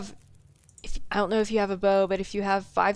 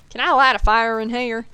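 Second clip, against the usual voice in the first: exaggerated Southern accent; 3 semitones higher, 6 dB louder than usual. Shown as a demonstration. Streamer repeats the line to show off her Southern accent. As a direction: lean into the Southern accent on purpose. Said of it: "my accent really popped out with that one".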